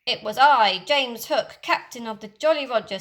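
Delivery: loud, lightly put-on captain voice; Hook impression. Peter impersonating Hook to the pirates, loud boast. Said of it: "his impression".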